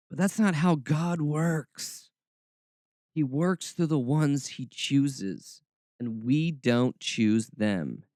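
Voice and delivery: slow, drawn-out mock Southern preacher tone, lightly done; mocking Southern accent. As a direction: read the quote with a faint, mocking Southern twang. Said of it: "when I get mockingly, my Southern roots come out".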